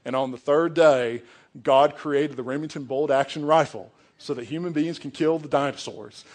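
mocking a thick Southern US accent; lightly hammed Southern accent, imitating a homeschooled kid; bad Southern accent. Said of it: "the worst Southern accent I have ever heard".

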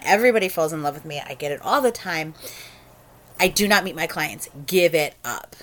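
laying down the law to a caller; exasperated, emphatic retelling of setting someone straight; retold firm telling-off. Phone sex operator sets a smitten client straight, firmly.

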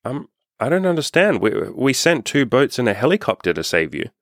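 a mock exasperated saint checking his records; puzzled Saint Peter. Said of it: "and he goes".

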